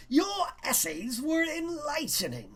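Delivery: teacher speaking to the class. Acted. Teacher Mister Svankta voiced.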